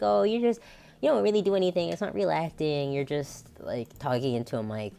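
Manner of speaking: mock dismissive. People brushing off voice acting, mock dismissive.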